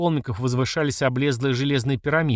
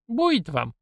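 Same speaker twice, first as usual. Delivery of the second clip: high-pitched, peaceable hushing of a squabble; conciliatory; 9 semitones higher than usual. A narrator's reading. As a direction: gently settle the argument. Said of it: "миролюбиво сказала мамаша". (миролюбиво, примирительно)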